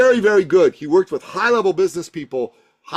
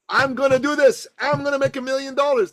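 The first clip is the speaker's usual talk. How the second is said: decisive; 6 semitones higher than usual. Shown as a demonstration. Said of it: "What does that mean?".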